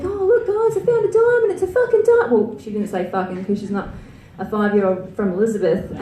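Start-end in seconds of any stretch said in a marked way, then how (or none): 0.0-2.3 put-on high, excited little girl; high excited kid voice. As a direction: play the five-year-old niece finding a diamond. Niece voiced in story.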